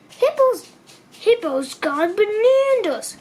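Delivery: monkey passing on news; excited monkey. A narrator's reading. Monkey voiced in story.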